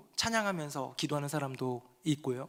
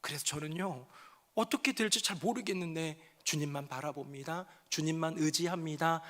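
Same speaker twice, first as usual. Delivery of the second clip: surrendering prayer. Acted. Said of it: "하면서 눈물의 기도가 변화되는데요".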